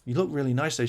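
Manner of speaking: mock lover compliment. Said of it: "Andrew comes on and goes".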